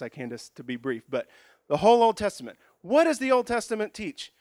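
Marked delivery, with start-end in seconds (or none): 1.7-4.3 emphatic announcement. Real, not acted. Announcing big overview.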